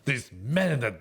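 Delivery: slow, appalled British caricature; mock British. Playing pompous British soldiers aghast at kilts, slow mock British. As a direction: draw it out with hammed-up British disdain. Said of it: "all the British were like".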